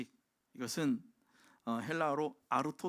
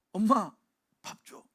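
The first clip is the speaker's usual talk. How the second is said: put-on child calling for food; 6 semitones higher, 10 dB louder, slower than usual. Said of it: "뭐라고 얘기합니까".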